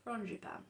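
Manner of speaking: frangipane said like marzipan; anglicised pronunciation. Shown as a demonstration. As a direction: say frangipane as ron-ji-pan, English style. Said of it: "Like marzipan".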